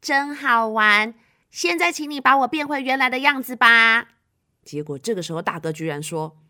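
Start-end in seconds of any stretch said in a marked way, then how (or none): 0.0-4.1 put-on cheerful little girl, louder; pleased, playful request; happy. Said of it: "小美很高兴说".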